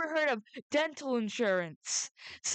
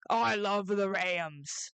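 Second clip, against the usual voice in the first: slow, drawn-out declaration of love; said slowly out loud; 4 semitones lower, much slower than usual. Shown as a demonstration. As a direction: spell out "I love the Rams" slowly and deliberately. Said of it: "I just wanna say it out loud".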